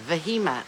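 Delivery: "Vehemite" with an H sound replacing the G; guessed pronunciation. Shown as a demonstration. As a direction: say "Vehemite" as veh-hee-mite. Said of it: "How do you pronounce it?".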